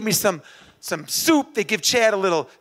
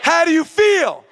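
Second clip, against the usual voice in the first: higher, forceful coach's call; rousing call-out; 5 semitones higher, 4 dB louder than usual. Acted. Coach drilling the runner on the only answer, rousing call. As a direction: fire the question at the crowd for a response.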